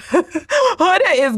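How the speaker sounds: slow, laughing through it; slow giggling repeat. Shown as a demonstration. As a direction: laugh the complaint out. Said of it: "Huda is getting on my nerves".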